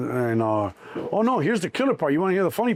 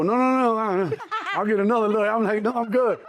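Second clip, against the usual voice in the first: laughing refusal; 8 semitones higher than usual. Retold or imitated. Laughing off the offered lawyer.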